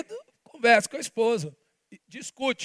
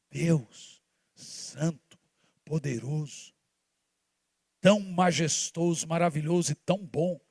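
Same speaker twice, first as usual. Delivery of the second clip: reverent praise; 6 semitones lower, 6 dB quieter than usual. Real, not acted.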